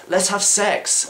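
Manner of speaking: high, slow, hammed-up cry of desire; wife finally demands it, hammed-up and high; mock eager demand. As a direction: lunge at him with the line. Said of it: "And one day, she says".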